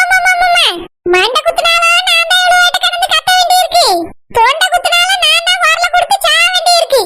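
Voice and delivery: lightly voiced scolding woman; bossy wife. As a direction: order her about like a cranky mistress of the house. Same woman complaining.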